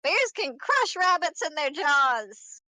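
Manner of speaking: put-on high excited kid voice; cartoon princess. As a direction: stumble eagerly like a small child. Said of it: "Comet's like".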